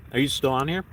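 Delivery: talking through a mouthful of food; words round a bite of venison; mouth full. Real, not acted. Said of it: "Talking with my mouth full, sorry".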